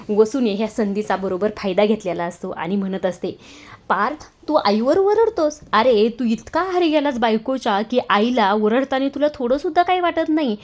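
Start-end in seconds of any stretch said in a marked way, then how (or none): 3.9-10.6 high-pitched scolding, slowed at the start; accusing taunt. Acted. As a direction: jab at him for shouting at his mother. Aunt taunts son over mother.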